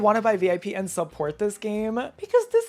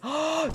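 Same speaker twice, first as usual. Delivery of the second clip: quick surprised gasp; sharp gasp; 7 semitones higher than usual. Real, not acted. Seeing copied pixie wings.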